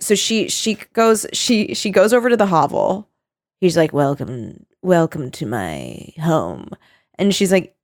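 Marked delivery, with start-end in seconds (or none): 3.9-6.7 low, slow vampire welcome; drawn-out low welcome of a vampire host; booming sing song welcome. Retold or imitated. Vlad welcoming Chelsea to hovel.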